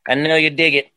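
high, manic rock-singer yowling; a famous actor-singer. Acted. Performing co-host's favourite impression, explosive high voice of the actor-singer. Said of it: "is Jack Black".

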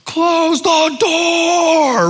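long, high drawn-out holler; parents' yell. Retold or imitated. Parents calling after a kid running outside, mock yelling. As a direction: holler it out, stretching every word. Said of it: "My parents would yell".

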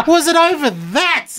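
a touch of mock dismay; incredulous. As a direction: ask it in mock dismay at yourself. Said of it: "And I was like".

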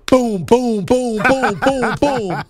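punchy, loud-ish repeated booms; mock coin-throwing booms. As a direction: boom it out playfully, beat after beat. Mimes throwing coins in a club.

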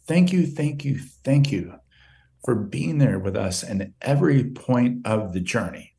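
holding back tears through the mother's words; choked up. Real, not acted. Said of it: "I'm getting a little choked up".

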